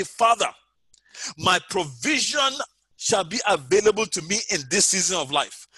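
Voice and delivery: spoken declaration. Shown as a demonstration. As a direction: declare it as a model prayer for the listeners. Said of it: "and say".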